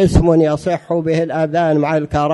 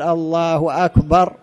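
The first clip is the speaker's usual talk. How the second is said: "أكبر" said as "wakbar" in the Bedouin way; a light Bedouin "الله وكبر"; Bedouin pronunciation. Retold or imitated. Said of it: "مثل بعض البادية".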